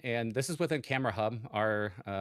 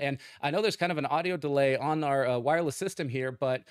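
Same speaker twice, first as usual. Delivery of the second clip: field reporter; 5 semitones higher, 3 dB louder than usual. Pretend. Plays field reporter on cue.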